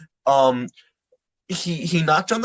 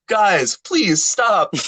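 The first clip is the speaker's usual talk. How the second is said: slow pleading; 5 semitones higher, much slower than usual. Retold or imitated. Begging fighters to stop.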